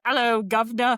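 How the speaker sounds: a light Cockney "Hello, governor"; Cockney accent. Retold or imitated. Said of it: "Oh, that's your voice".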